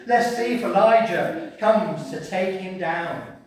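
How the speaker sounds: drawn-out mock anticipation; sarcasm. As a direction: taunt as a sceptical bystander. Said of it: "that's sarcasm".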